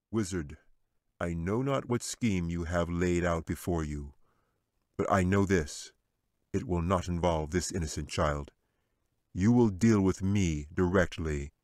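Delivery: firm, measured angel warrior; angel's stern voice. Acted. Angel facing down the wizard, firm and protective. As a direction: stand guard over the child.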